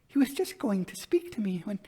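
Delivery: high, breathless whisper of the vision; hushed whisper. A narrator's reading. Elder sister whispers to her sister how he almost spoke. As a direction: whisper it as if he might still hear. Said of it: "still very wildly".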